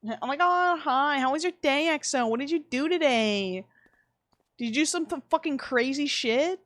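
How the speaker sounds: high, sing-song friendly chirp; playful high-pitched small talk; gushing greeting. Pretend.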